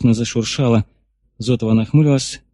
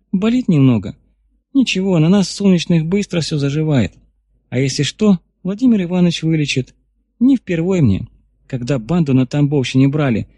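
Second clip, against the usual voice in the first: put-on girl voice; 4 semitones higher than usual. Girl speaking, raised pitch.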